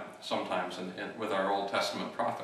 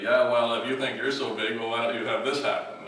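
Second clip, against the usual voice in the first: taunting; 5 dB louder than usual. Acted. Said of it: "they say".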